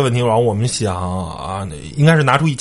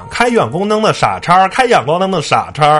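high, repeated mock yell as if through a loudspeaker; imitated megaphone yelling; 8 semitones higher, 3 dB louder than usual. Man yelling through a megaphone at high-beam drivers, high mock yell. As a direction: chant it at the offending driver, pitched high. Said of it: "一直喊".

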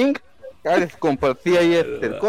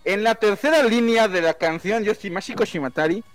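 pedantic know-it-all; 3 semitones higher than usual. Acted. Superfan persona, pedantic.

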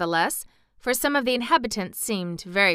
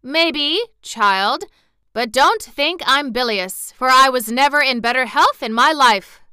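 put-on higher, louder hearty old man; old gentleman; 5 semitones higher, 7 dB louder than usual. Johnny Cake replies to Dorothy, cheerful old gentleman voice. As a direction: play a cheerful old gentleman reassuring a child. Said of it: "replied the old gentleman".

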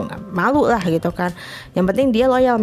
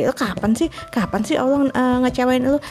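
higher, exasperated self-scolding; scolding herself; 6 semitones higher than usual. Retold or imitated. Worried about money, she scolds herself in mock anger. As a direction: nag yourself for worrying too much. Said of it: "saya suka marah sama diri saya sendiri".

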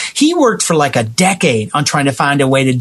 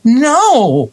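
flat refusal; 7 semitones higher than usual. Retold or imitated. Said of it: "And it's like".

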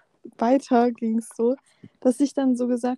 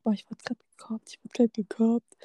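whispered mock lament; 5 dB quieter than usual. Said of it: "zu seinen Freunden ... gesagt".

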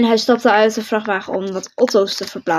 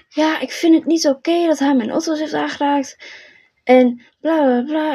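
lightly mocking whine of complaint; retold grumble in a raised pitch; mock nagging; 5 semitones higher than usual. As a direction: imitate a griping neighbour, a little higher. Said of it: "Echt allemaal zeuren".

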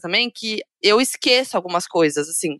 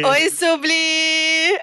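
drawn-out sing-song hello; slow sing-song greeting; 4 semitones higher, much slower than usual. Shown as a demonstration. Couple demonstrating their greeting to Subli, drawn-out sing-song. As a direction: stretch the name out slowly, singing it. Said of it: "A gente manda assim pra ela".

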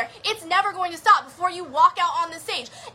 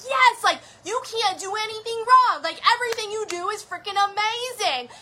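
higher, excited cheering voice; cheering mob; 5 semitones higher than usual. Retold or imitated. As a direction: cheer like a crowd of supporters. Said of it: "those mobs are out there, cheering on".

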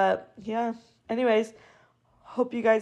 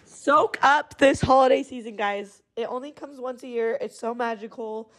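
dreamy gushing; 3 semitones higher than usual. Real, not acted. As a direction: gush over the holidays. Gushing holiday sign-off.

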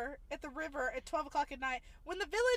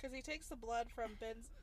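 hiccups; 5 semitones lower, 6 dB quieter than usual. Real, not acted. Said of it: "I have the hiccups".

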